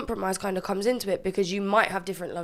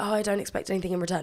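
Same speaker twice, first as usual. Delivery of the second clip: ordinary talk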